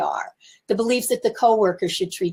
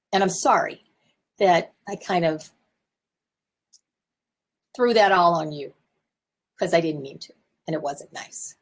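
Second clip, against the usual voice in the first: sincere apology. Shown as a demonstration. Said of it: "I can even say".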